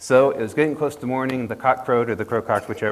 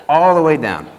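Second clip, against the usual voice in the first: laughing; 6 semitones higher, 11 dB louder than usual. A narrator's reading. Narrator laughing mid-story.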